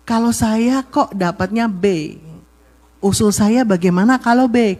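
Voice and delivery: unhurried, gentle suggestion; usul tanpa ngegas. Shown as a demonstration. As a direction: offer it mildly as the wife. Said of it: "Jangan ngegas". (istri mengusulkan dengan lembut)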